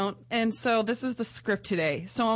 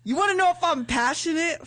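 sultry script reading; 7 semitones higher, 3 dB louder than usual. Acted. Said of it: "These are my lines".

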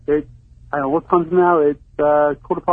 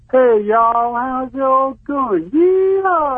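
high, drawn-out Southern yee-haw; dumb Southern American; 8 semitones higher, much slower than usual. Shown as a demonstration. British caller attempting an American accent, dumb Southern drawl. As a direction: put on a dopey American Southern drawl, rising to a whoop. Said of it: "Yeah, you always go southern".

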